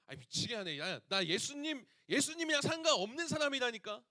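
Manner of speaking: a cornered man snapping his denial; exasperated denial. Retold or imitated. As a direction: Peter losing patience, voice climbing. Peter denying Jesus, exasperated.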